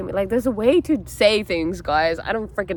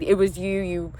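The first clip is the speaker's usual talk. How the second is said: blaming. Acted. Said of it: "you're not blaming".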